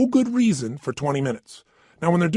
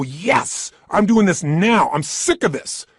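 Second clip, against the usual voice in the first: determined yes; 3 semitones higher, 5 dB louder, slower than usual. Shown as a demonstration. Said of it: "if you make a radical change, if you go".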